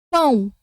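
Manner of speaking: Pão with a clear nasal ão gliding to u; teacher modelling Pão slowly; careful demo pronunciation. Shown as a demonstration. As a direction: spell out Pão so the final U is heard. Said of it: "Vou fazer pra vocês".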